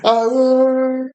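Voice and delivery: high wailing retch; imitated puking. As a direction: mimic helpless vomiting in a high voice. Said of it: "You could puke on them".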